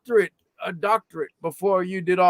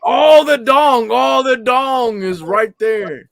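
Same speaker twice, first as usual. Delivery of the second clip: mocking; 2 semitones lower, slower than usual. Drawn-out mocking jab at the beard.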